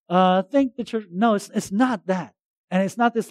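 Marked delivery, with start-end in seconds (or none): 0.4-1.1 a rote, hollow "Thank the church"; artificial thanks. Retold or imitated. Pastor mocking a cliched thank-you, hollow and rote. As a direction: toss off "Thank the church" like a stock phrase. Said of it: "it's not like this artificial".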